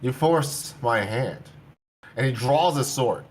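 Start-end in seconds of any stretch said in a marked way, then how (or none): 0.0-1.4 slow, heavy, menacing; slow menacing threat. Acted. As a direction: lean into the threat, slowly. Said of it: "he looks at you and he says".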